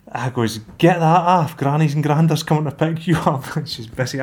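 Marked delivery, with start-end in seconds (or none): 0.8-3.4 loud, high telling-off; louder, raised parental command; firm dad order. Retold or imitated. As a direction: bark it at the kid. Dad ordering daughter out of gear.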